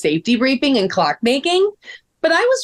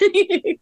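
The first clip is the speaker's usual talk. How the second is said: light laugh; 7 semitones higher than usual. Acted. Joking she is almost speechless.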